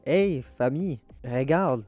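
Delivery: proud "come look" call, slightly acted; calling the family. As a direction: call them over to show off your work. Voices himself calling his family to look.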